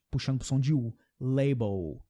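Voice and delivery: label with the final L turned to an U sound, lebou; dark L like U. Shown as a demonstration. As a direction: end label on a rounded U instead of L. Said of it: "eles falam parecido com a gente".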